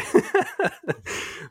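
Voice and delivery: airy high-pitched laugh; high breathy laugh. Real, not acted. Laughs after joke. (rire aigu et soufflé)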